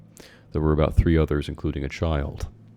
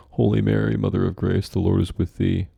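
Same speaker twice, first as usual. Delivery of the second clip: frantic prayer; 3 semitones higher, 5 dB louder than usual. Acted. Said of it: "The mother started to pray".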